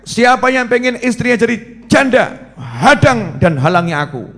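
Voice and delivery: proud warrior's dare, lightly acted; gallant challenge. Preacher retelling Umar's dare to the crowd, bold. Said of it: "Ini gagah".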